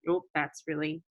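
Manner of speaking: hiccup breaking the words. Real, not acted. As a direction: talk through a hiccup. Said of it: "I have hiccups".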